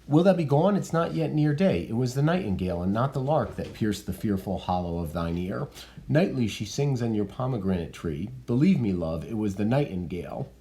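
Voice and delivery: Juliet coaxing Romeo to stay; reading Juliet. Acted. Rereads Juliet after stage direction.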